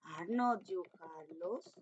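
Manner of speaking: very slow, each word set apart; slow dictation. Shown as a demonstration. Teacher dictating the negative question slowly to pupils. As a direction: read it out for the children to copy. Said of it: "teacher reads negative question".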